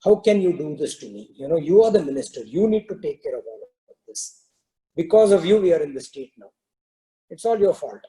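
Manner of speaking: understated angry king blaming his minister; mild scolding. Acted. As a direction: scold with a touch of frustration. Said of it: "he started scolding the minister".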